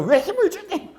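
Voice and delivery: high squeal of mock reproach; scolding grandmother. Grandmother telling off grandchild for tensing up, high mock scolding. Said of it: "막 야단을 치는 거예요".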